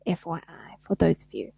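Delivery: a quick hushed whisper to the listeners; whispered aside. Real, not acted. Tells listeners a handy tip, as a whispered aside.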